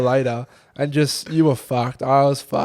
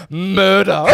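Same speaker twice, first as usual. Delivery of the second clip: laughing; 5 semitones higher, 3 dB louder than usual. Retold or imitated. Retelling the friend's one-word text.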